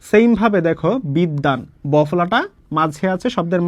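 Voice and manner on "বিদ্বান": বিদ্যান with a long d and no b; doubled দ. Shown as a demonstration. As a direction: say বিদ্যান as "bid-dan", the b-phala silent. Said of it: "দয়ের উচ্চারণটা কতবার হবে".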